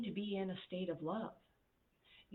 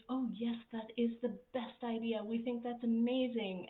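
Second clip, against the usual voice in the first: higher, fawning yes-man voice; people pleaser; 4 semitones higher than usual. Retold or imitated. Yes-men flattering their boss, fawning and eager. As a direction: gush over the boss's idea like a sycophant. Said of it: "a bunch of people pleasers".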